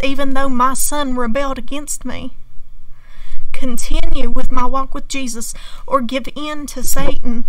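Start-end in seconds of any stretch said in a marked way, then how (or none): 3.5-7.4 forceful. Real, not acted. Repeats her choice, much louder.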